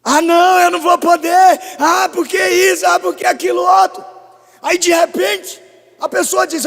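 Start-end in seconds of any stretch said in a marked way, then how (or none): 0.0-4.0 high, loud mocking whine; mock a self-pitying believer; whiny complaining. Pastor mimics believer complaining to God, high mocking whine. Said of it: "mais chora do que faz".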